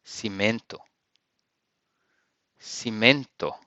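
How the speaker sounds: cimento as si-MEN-to with a nasal e; Portuguese cimento. Shown as a demonstration. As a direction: model word cimento. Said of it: "you use".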